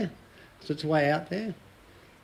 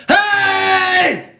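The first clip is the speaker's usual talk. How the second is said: high, loud call out the car window; dad yelling from the car into the street; loud shout; 13 semitones higher, 7 dB louder than usual. Retold or imitated. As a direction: yell to draw a crowd.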